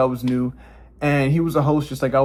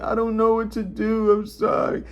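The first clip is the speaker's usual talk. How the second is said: mock scared apology; 8 semitones higher than usual. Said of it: "I just kept playing it along".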